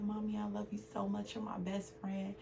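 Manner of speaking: soft imitation of a young daughter; hushed retelling of her daughter; little daughter's reply. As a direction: quote a small child, very quietly. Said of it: "And she said".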